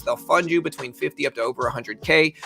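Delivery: rapid-fire sponsor read; auctioneer voice. Acted. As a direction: rattle it off like an auctioneer. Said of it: "That auctioneer voice you got".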